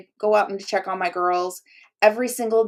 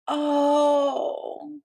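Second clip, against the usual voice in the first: surprised gasp; 6 semitones higher than usual. Real, not acted. Realizing the prize is really hers.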